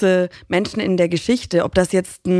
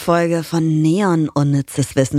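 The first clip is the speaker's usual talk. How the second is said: right in your ear; 3 semitones lower than usual. Real, not acted. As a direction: close to the mic, intimate. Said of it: "Ich bin heute ganz nah am Mikrofon dran".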